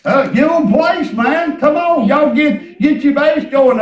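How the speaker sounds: loud, driving sermon delivery; fervent preaching. Real, not acted. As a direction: preach it out with punched phrase endings. Preaches with full voice.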